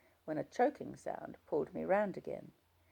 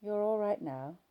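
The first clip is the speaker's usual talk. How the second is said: reassuring; 6 semitones higher than usual. Acted. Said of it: "I tried to reassure her".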